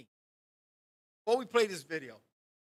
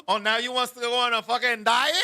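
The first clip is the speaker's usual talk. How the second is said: dramatic mom; 3 semitones higher, 4 dB louder than usual. Retold or imitated. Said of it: "she starts getting dramatic".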